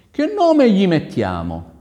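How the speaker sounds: loud, high, drawn-out question; prince asking his wife. Acted. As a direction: ask it slowly with a lifted, projected voice. (principe, domanda alta e lenta)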